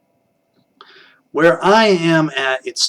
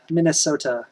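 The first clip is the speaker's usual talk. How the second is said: softer attempt at a Minnesota accent; 6 dB quieter than usual. Shown as a demonstration. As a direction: try the word in an upper Midwest accent. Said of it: "that accent".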